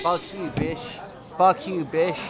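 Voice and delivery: mocking "bish" for bitch; missing T. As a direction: drop the T, ending "bish" on sh. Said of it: "pronunciate the T".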